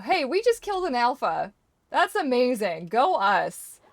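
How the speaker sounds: loud, high victory whoop; cheering a hard-won win; triumphant cheer. Real, not acted. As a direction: celebrate the kill out loud. Celebrating killing an alpha.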